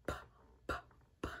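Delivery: short puffed "P" sounds, only the breath pop. Shown as a demonstration. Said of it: "The P says P".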